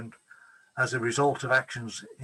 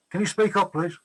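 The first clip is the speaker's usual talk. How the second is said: raised voice, calling across the room; 6 semitones higher, 5 dB louder than usual. Real, not acted. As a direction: call out so the questioner hears. Can't hear the questioner, calls out.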